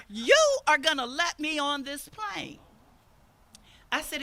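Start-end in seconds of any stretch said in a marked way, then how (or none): 0.1-2.6 louder, menacing insistence; angry demand. Retold or imitated. Angry customer leaning over the counter, louder demand. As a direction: lean in and demand it.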